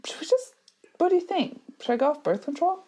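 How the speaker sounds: lifted, hesitant and quiet, a little sheepish; high tentative question. Retold or imitated. Over lunch, asking husband about going off birth control, high and hushed. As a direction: float the idea in a high hushed voice.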